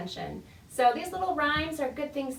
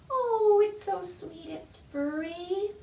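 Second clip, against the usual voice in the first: cooing; 6 semitones higher, slower than usual. Pretend. Cooing over pretend cat.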